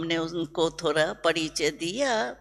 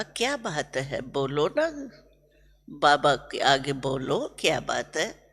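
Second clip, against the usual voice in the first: lower, gentle coaxing voice; a mild, fond invitation to speak up; loving coaxing; 5 semitones lower than usual. Retold or imitated. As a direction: coax the children to speak, lovingly. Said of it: "ऐसे प्यार से बोल रहा था".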